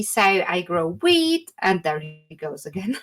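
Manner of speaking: cheerful halfling woman listing her produce; halfling farmer listing crops. Acted. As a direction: count the crops off fondly.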